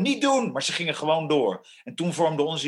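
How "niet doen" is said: imitated girls' scream. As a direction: imitate girls crying out, pitched way up. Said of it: "gillen en schreeuwen". (nagedaan hoog meisjesgegil)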